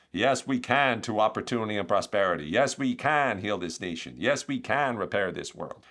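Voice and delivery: light attempt at a campaign-speech cadence; measured rally refrain, loosely imitated; Barack Obama. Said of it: "don't have a great Barack Obama impression".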